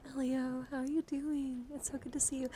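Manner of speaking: delighted greeting. Real, not acted. Greets a viewer arriving in chat.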